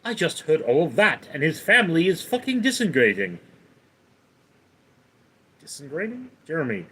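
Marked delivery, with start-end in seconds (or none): 0.0-3.4 lightly put-on cartoon accent; Stewie. Streamer performing a requested line, light Stewie impression. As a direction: say it with a hint of a cartoon character's accent. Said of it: "can you say Stewie accent?".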